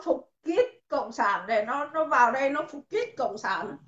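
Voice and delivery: "kít" with an i vowel, repeated mockingly; mock accent pronunciation. Shown as a demonstration. Streamer jeers at an opponent, "kít" said in the mimicked accent. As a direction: hit "kít" in the put-on accent, not "cứt". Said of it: "Nói phải nói đúng giọng".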